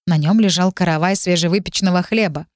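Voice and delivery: ordinary delivery, nothing marked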